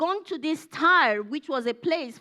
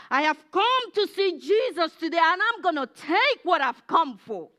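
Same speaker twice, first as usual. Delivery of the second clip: determined; 3 semitones higher, 4 dB louder than usual. Acted. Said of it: "That was her mindset".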